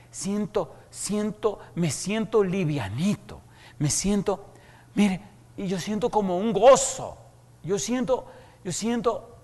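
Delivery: high, wavering voice of tearful joy; a dying man overwhelmed, laughing through tears. Retold or imitated. Moribundo llora y sonríe. (el moribundo, alto y lloroso de alegría)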